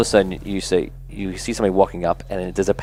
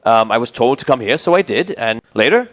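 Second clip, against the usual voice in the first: lightly voiced, hesitant traveler; Argon the paladin; 4 semitones higher, 5 dB louder than usual. Paladin introduces himself to strangers, lightly acted hesitant voice. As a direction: explain yourself haltingly, a little raised.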